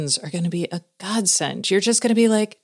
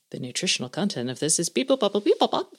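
robot voice; 4 dB quieter, faster than usual. Retold or imitated. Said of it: "they'll be like".

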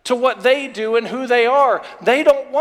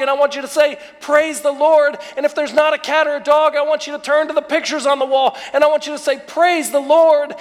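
building praise; 3 semitones higher, faster than usual. Shown as a demonstration.

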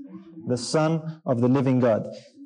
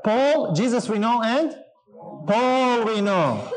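higher, slow, dragged-out devil voice; mocking devils; 6 semitones higher, slower than usual. Preacher voices the devils taunting the false exorcists, high and slow. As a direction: let the demons taunt, drawn out and eerie. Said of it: "And what did the devils say?".

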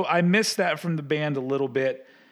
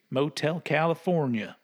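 Southern twang. Real, not acted. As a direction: say it with a hint of a Southern accent. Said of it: "I don't know why I said it like that".

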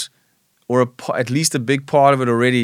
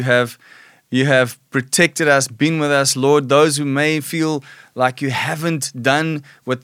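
prayer. Acted. Prays over the audience.

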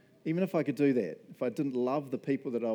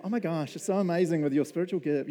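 put-on Valley Girl; 4 semitones higher, 5 dB louder than usual. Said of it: "I just went Valley Girl".

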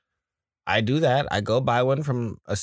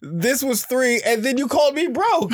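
very high-pitched incredulous squeal through laughter; laughing indignation; 12 semitones higher than usual. Retold or imitated. Acted indignant reply to blunt child.

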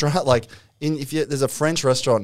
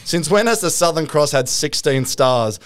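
indignant Aussie reviewer; 2 semitones higher than usual. Retold or imitated. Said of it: "Aussies complaining".

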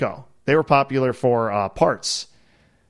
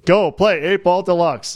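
laughing game-voice quote; 5 semitones higher than usual. Retold or imitated. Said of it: "they just say".

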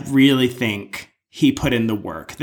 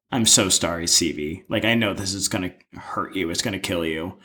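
low, soft, lightly choked-up regret; a touch of a voice about to break, sorry to say it; choked-up apology; 5 semitones lower, 4 dB quieter than usual. Retold or imitated. Host imitating the host reading Stevie's vote, softly choked up. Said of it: "hiccup in his voice as if he's getting emotional".

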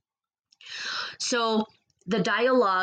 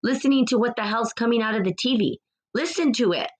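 passionate preaching; 3 semitones higher than usual. Real, not acted. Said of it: "I get a little passionate sometimes".

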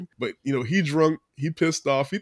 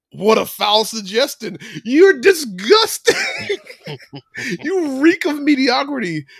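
high, loud, laughing mock outrage; hammed-up disgust; 10 semitones higher, 6 dB louder than usual. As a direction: sneer it out, much higher and louder. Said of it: "Joseph turns it around and he's like".

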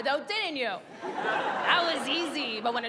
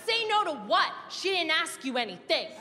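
heckling shout; 4 semitones higher than usual. Retold or imitated. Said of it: "And I shouted".

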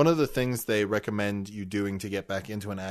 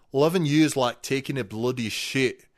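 higher, hammed-up Scottish joke delivery; broad mock-Scottish voice, building louder; Scottish accent; 4 semitones higher, 4 dB louder than usual. Shown as a demonstration. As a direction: tell it as a cartoon Scotsman. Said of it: "go around in a Scottish accent".

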